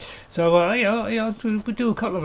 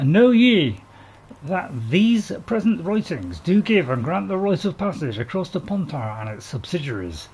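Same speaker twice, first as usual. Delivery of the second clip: royal proclamation; 2 semitones higher than usual. Pretend. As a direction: read it out like a king's herald. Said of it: "I'll start again".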